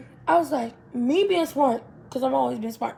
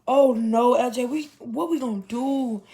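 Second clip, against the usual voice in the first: panicked cry; 4 dB louder than usual. Retold or imitated. Panic on dying bike.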